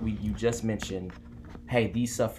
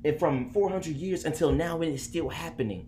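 voice of the hurt; 5 semitones higher than usual. Acted. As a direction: speak for the wounded with righteous anger. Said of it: "I want to play the voice of the hurt".

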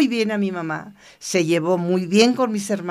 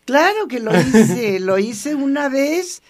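emphatic admission; 4 semitones higher, slower than usual. Real, not acted. Admitting she did it.

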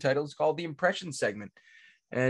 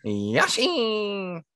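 higher cartoon squeak; Yoshi voice; 6 semitones higher than usual. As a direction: squeeze it out like the little dinosaur. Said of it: "It's really nasally".

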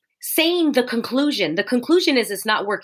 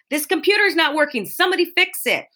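higher-pitched exasperated complaint; mock frustration; 4 semitones higher than usual. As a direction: demand a fix, acting mildly fed up. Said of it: "And we get frustrated".

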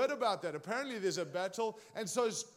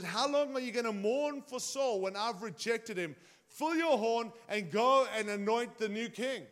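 voice of God. Acted. The Lord speaks to Samuel.

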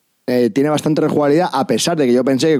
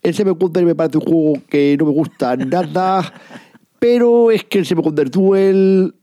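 lightly voiced radio pundit; a hint of pompous broadcaster; Jiménez Los Santos voice; 3 semitones higher than usual. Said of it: "el tonillo Jiménez Los Santos".

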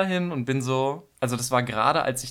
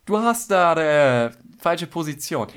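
put-on singing teacher in a light Italian accent, loud and slow; lightly put-on Italian accent, stretched out; mock Italian accent; 4 semitones higher, 6 dB louder, slower than usual. Singing teacher stopping the song to correct, mock Italian accent. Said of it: "Das war italienisch gerade".

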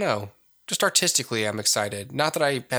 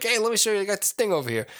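higher-pitched, put-on Emperor accent; imitated Emperor accent; 9 semitones higher, much faster than usual. Teasing co-host about his Emperor voice, imitated accent. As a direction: mimic a friend's silly accented Emperor. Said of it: "giving the Emperor an accent".

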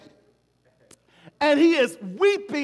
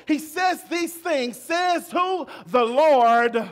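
preaching build; 3 semitones higher, much slower than usual. Acted. Preaching climax.

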